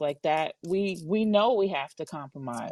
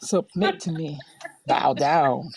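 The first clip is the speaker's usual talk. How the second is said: dark lord; 4 dB louder, slower than usual. Pretend. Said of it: "that's exactly what it sounds like".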